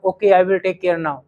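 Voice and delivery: calm, slow and polite "Okay, I will take care now"; a well-mannered child agreeing gently; polite reply. Shown as a demonstration. Told to avoid Hindi, a polite student agrees calmly. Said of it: "अब सभ्य बच्चा तो यही कहेगा".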